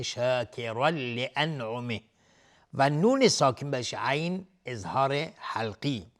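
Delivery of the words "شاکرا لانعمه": "شاکرا لانعمه" slow, tanwin merged cleanly into a doubled l; merging without nasalisation. Shown as a demonstration. Teacher shows idgham, "شاکرا لانعمه" slow with doubled l. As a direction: say "شاکرا لانعمه" as shakiral-li-an'umih, no nasal hum. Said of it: "ادغام بدون غنه".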